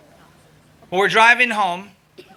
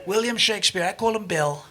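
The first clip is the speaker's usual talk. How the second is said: Donald Trump; 7 dB quieter than usual. Acted. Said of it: "Donald Trump loves to take credit".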